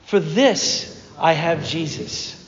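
slowed, spoken with the congregation; slow unison creed; slow shared mantra. Shown as a demonstration. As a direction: lead everyone in saying it together. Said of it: "could we just say that together".

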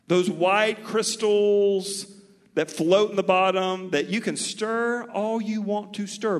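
big preacher emphasis; emphatic. Real, not acted. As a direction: paint the picture with force. Emphatic sermon illustration.

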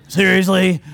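amused, half-laughing question; laughing at his own joke; laughing disbelief. Real, not acted. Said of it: "that's how I like to imagine it".

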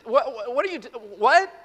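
mock disbelief.

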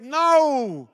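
sudden loud, high shout; emphatic shout. Acted. Preacher refusing doubt to the congregation, shouted no. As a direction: cry it out as a flat refusal.

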